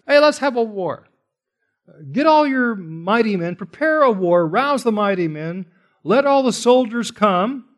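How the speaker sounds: God mockingly inviting the nations to battle; sarcastic. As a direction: taunt them into a war they'll lose. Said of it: "God's being sarcastic here".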